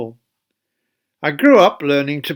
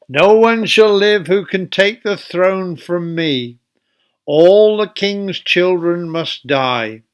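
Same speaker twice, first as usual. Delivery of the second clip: crying out; 2 semitones higher, 4 dB louder than usual. Acted. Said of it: "she cried".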